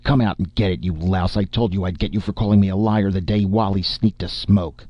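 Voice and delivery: an angry shouted challenge; screaming challenge. Acted. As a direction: dare him to come out. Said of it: "I screamed".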